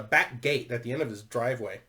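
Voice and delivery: ordinary talk, nothing marked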